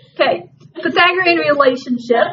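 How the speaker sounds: high, giggling, laughing through the words, unable to stop. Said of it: "I can't say it without laughing now".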